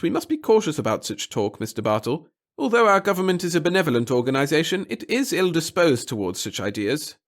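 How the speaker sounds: high, nervous little official; a fussy, timid bureaucrat. Acted. Pettigill cautions.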